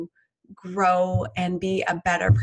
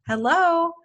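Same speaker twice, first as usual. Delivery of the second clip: louder hello; 10 semitones higher, 4 dB louder than usual. Shown as a demonstration. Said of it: "you just say".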